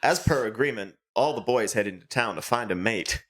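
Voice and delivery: lightly voiced wildlife narrator; a hint of solemn nature narration; mock documentary narrator. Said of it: "the narrator's like".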